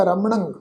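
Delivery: ਰਮਣੰ ending on a nasal "ng". Shown as a demonstration. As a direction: send the last syllable of ਰਮਣੰ through the nose. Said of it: "ਨਾਸਕੀ ਉਚਾਰਨ ਹੋਏਗਾ". (ਰਮਣੰ ਦੇ ਅੰਤ ਵਿੱਚ ਨਾਸਕੀ ਉਚਾਰਨ)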